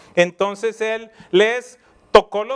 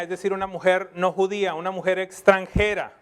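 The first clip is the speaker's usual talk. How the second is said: ordinary delivery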